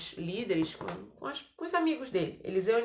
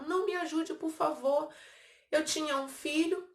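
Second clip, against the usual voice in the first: higher, pleading cry of a frightened mother; desperate plea; 5 semitones higher than usual. Acted. Starving mother begging the king for help, desperate higher plea. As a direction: beg him for help, voice lifted in distress.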